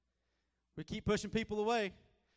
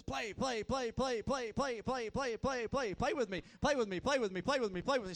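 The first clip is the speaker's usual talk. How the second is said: put-on high, insistent child's pleading; a small girl nagging her tired dad; little girl begging; 5 semitones higher than usual. Daughter begging dad to play, insistent child voice. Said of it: "She goes".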